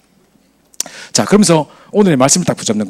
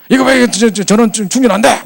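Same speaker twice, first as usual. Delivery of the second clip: high, loud imitated griping; angry complaint; 7 semitones higher, 4 dB louder than usual. Passenger complaining to attendant that charging fails, angry mock shout. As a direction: demand it like an irate passenger.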